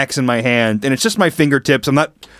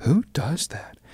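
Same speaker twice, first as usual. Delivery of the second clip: mock under-breath mutter, much quieter; 9 dB quieter than usual. Speaker retells a woman's remark near the donuts, retelling a mutter under breath. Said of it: "they said like really slightly under their breath".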